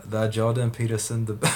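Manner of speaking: botched attempt at a French accent; bad French accent. Streamer reading a viewer's comment on request, in bad French accent. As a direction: try a fake French accent and give up partway. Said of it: "I sound like a mental patient".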